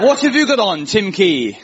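high, sing-song mock Welsh; a famous TV host. Dating show host asking a guest's outfit, mock Welsh accent. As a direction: put on a comic Swansea accent. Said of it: "we'll pretend Scylla's from Swansea".

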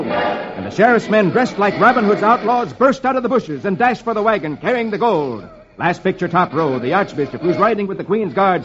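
lively adventure narration; story narration. A narrator's reading. Reader telling of the ambush on the wagon, lively storytelling. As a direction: narrate the action with lift.

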